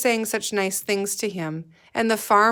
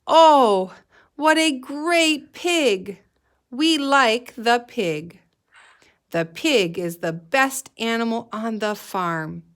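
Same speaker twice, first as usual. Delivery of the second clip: lots of feeling; 3 semitones higher, 4 dB louder than usual. Shown as a demonstration. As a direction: show the kids how to praise with real feeling. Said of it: "we should sound like we have a lot of feeling in our voice".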